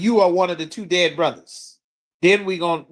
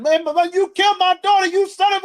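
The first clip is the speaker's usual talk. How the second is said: mock courtroom yell; 12 semitones higher than usual. Grieving father yelling at his daughter's killer in court, furious. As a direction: scream at the man who killed your daughter. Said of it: "You don't get to yell at them and curse them".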